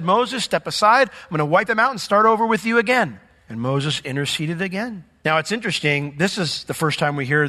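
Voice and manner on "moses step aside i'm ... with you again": lightly voiced God, higher and louder; a hint of a booming God. The Lord tells Moses to step aside, lightly voiced. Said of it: "the Lord said".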